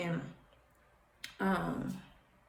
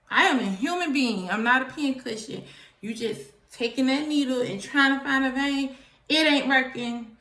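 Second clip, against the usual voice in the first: aggravated complaint; 4 semitones higher, 4 dB louder than usual. Retold or imitated. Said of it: "I was aggravated".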